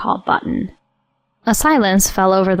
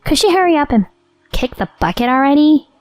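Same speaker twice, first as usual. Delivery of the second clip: mistress voice; 4 semitones higher than usual. Acted. Mistress on phone.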